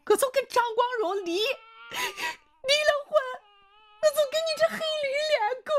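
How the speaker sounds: tearful screaming tirade. A narrator's reading. Wife rails at the other man in the yard, high sobbing screams. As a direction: scream and wail at him, close to collapse. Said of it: "胡彩香又冲着他舅喊".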